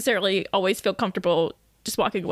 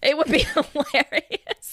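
slow, laughing, drawn-out; laughing drawl; 2 semitones higher, much slower than usual. Real, not acted. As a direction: stretch it out while laughing.

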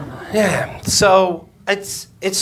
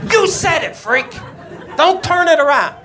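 mock shout; 10 semitones higher than usual. Doctor keeps yelling accusation.

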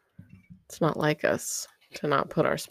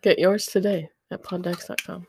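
upbeat mock ad read; chipper 1950s ad; 4 dB louder than usual. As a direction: pitch it like a cheesy old commercial. Mock sponsor plug.

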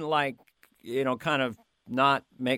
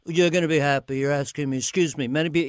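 Trump impression; faster than usual. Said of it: "he has the craziest A D D repeating words".

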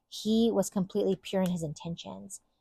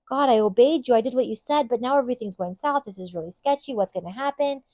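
anxious plea; 5 semitones higher, 5 dB louder than usual. Retold or imitated. Voicing a worried believer's prayer.

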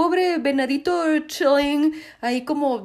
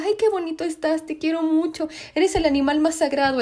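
cooing; 5 semitones higher than usual. Retold or imitated. Newt cooing at the deer.

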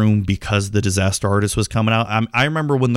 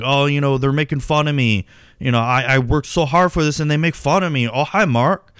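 mock sad and mad, pitched higher; Tommy; 4 semitones higher than usual. Humiliated filmmaker after his premiere is laughed at, mock-hurt. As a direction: imitate a mildly hurt, indignant complaint. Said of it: "he's really sad and mad".

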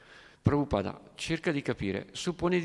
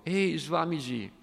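high, loud call "Ehi"; hippie shouting; 7 semitones higher, 3 dB louder than usual. Acted. Young hippie calls out to the Swami, loud and high. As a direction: yell it across the hall, pitched up. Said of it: "si alzò e gridò".

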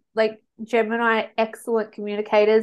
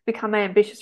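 talking while burping. Real, not acted. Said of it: "Sorry, I'm burping".

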